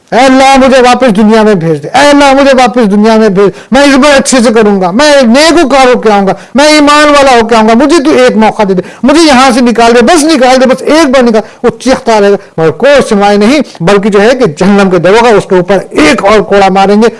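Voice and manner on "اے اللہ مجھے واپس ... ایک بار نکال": raised, pleading voice of a damned soul; a sinner crying out for release; desperate pleading. Acted. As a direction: beg God for one more chance. Damned soul begging God.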